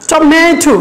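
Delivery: "Tomato" with a longer, stronger middle syllable; stress on MA. Shown as a demonstration. Teacher shows students the stress in "Tomato", middle syllable stressed. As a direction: lean on the middle of "Tomato", then let the end fall. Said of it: "কোথায় জোর দিচ্ছি".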